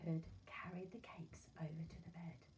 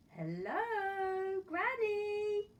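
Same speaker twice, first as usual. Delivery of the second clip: put-on sing-song girl; 12 semitones higher, 10 dB louder, much slower than usual. Girl greets granny cheerfully.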